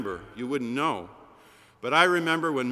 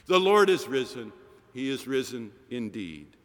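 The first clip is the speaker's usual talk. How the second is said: Easter sermon close. Acted. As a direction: announce the risen Lord, then settle down. Closing Easter proclamation.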